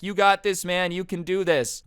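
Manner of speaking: mock pep talk to a nervous kid; encouraging. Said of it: "he's trying to be encouraging".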